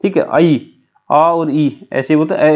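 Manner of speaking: आई split into आ and ई, said slowly; pronunciation demo. Shown as a demonstration. Teacher to students demonstrating how आई sounds, slowly. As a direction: stretch आई so both sounds are heard. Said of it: "pronunciation होती है वो कैसे होती है".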